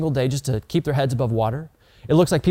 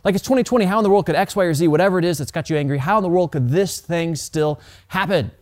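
mock outrage; 3 semitones higher than usual. Preacher imitating angry people on Twitter, mock outrage. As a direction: throw up exasperated outrage. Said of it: "We thought to ourselves".

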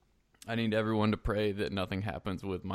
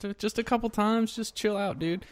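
mock dismissive; 10 semitones higher than usual. Real, not acted. Mock scolding listeners.

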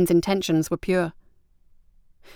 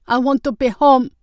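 high, loud, plaintive cry; 6 semitones higher, 5 dB louder than usual. A narrator's reading. Sushong struggles in the water, crying out for home. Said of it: "as Sushong cried".

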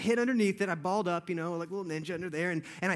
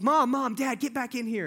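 calling parents; 4 semitones higher, 4 dB louder than usual. Retold or imitated. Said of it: "he calls".

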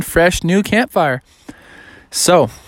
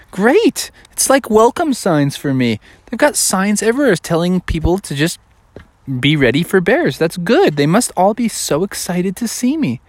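higher-pitched, pleased bear voice; lightly acted happy excitement; mildly thrilled, naively pleased bear; delighted bear; 5 semitones higher than usual. Bear delighted by warning signs.

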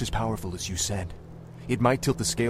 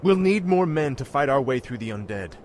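commanding; 4 semitones higher than usual. Acted. Commands troops.

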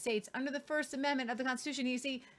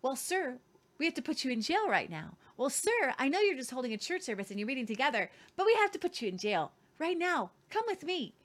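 mock polite police officer. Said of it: "Okay, but they were so polite".

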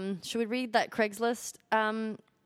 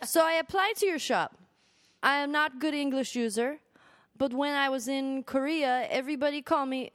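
put-on Korean accent; 2 semitones higher than usual. Co-host reading a job seeker's letter, mock Korean accent. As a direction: read it out in an attempted Korean accent. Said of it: "I can't do a Korean accent".

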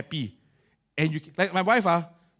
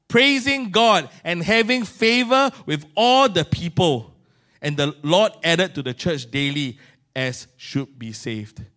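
slow, measured Bible reading; scripture reading; slower than usual. Acted. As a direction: read the verse deliberately, savoring it. Reads Acts 2.

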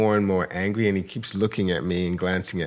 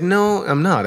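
high, louder protest; emphatic denial; 11 semitones higher, 6 dB louder, slower than usual. Retold or imitated. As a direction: push back on the accusation, pitched up. Retold denial of an accusation.

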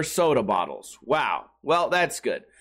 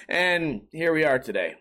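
usual speaking voice

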